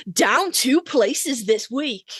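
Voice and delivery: slow, drawn-out chart host read; mock countdown announcer. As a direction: spell it out like a radio chart host.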